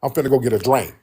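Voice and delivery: imitated Birmingham Southern talk; Southern accent, "drink" said as "drank"; Southern dialect. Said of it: "a soda is called a drink".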